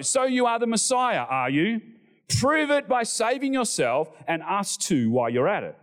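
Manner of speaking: high, scornful jeer from the cross; scoffing. Acted. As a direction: sneer it like a mocking criminal.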